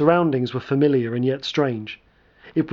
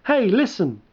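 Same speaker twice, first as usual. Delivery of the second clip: tinny electronic voice; 7 semitones higher than usual. Acted. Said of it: "A tinny electronic voice yelped".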